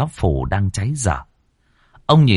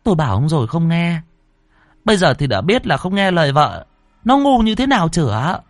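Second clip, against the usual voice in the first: higher, fast nagging scold; higher quick scolding tone; scolding wife; 8 semitones higher than usual. Acted. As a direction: tell him off, I told you so. Wife scolds wet husband.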